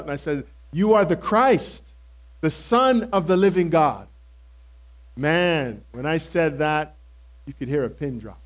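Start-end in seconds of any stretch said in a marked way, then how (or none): 0.7-4.1 retold shout. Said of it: "I had to shout it out".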